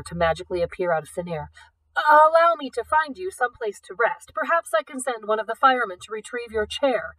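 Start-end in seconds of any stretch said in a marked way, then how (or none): 2.0-7.1 fussy offer. Acted. Fussy director offering help.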